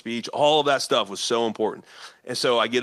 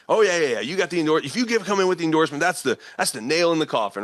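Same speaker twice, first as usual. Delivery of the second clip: higher, quicker, keen as if sure of the win; eager mock enthusiasm; 5 semitones higher, faster than usual. Retelling what he told him, with higher, faster excitement. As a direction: play up the other man's confident excitement. Retelling Trump's side of the endorsement.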